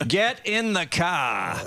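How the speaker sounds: very slow, drawn-out stern dad; Darth Vader with Boston accent. Retold or imitated. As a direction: drag each word out like a threat. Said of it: "like Darth Vader with a Boston accent".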